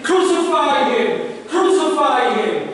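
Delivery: preacher imitating a yelling mob; retold crowd yell. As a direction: call it out like a crowd, without full screaming. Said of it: "were yelling and were screaming".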